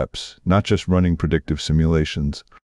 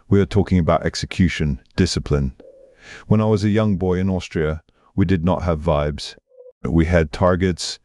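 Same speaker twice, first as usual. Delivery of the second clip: put-on heavy Austrian accent; Arnold Schwarzenegger. Screen titan correcting the host about vibes, in exaggerated Austrian accent. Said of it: "exaggerated Austrian accent".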